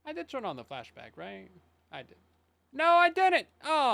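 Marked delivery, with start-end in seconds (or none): 2.7-3.9 sudden high alarmed yell; real shock at own mistake; surprised shout. Real, not acted. Realizes mistake with setting.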